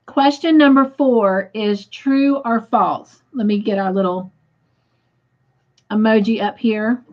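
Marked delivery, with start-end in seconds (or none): 3.3-7.0 mouth full. Real, not acted. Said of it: "I hope I'm not smacking in y'all's ears".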